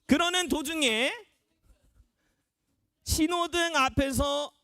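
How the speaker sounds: deliberate storytelling with long suspenseful pauses; story narration. Acted. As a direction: tell the tale phrase by phrase to the group. Narrates a story for the practice game. (한 구절씩 끊어 이야기 들려주듯)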